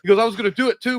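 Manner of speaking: high-pitched excited kid imitation; mock giddy confession; real excited. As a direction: gush it high, like an eager maniac. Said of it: "he was real excited".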